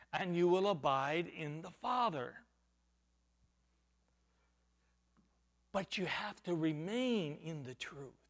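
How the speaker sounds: soft low earnest voice; hushed preaching. Real, not acted. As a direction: draw them in close with a hush. Preacher drops to a hush.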